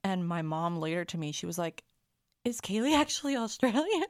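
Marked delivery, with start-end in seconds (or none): 2.4-4.0 high, loud question through laughter; incredulous. Retold or imitated. Mom asking after rehearsal, laughing imitation of astonishment.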